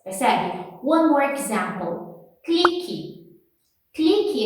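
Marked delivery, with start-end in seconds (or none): 2.4-4.4 "Clique" said high, with a clear final i; Portuguese word demo. Shown as a demonstration. Teacher introducing the word "clique" to students. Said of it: "a gente escreve assim".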